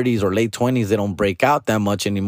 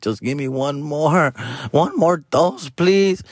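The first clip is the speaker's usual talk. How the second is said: like a crackhead; 3 semitones higher, slower than usual. Retold or imitated. Begging the doctor for one more pill round like a crackhead. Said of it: "like a fucking crackhead".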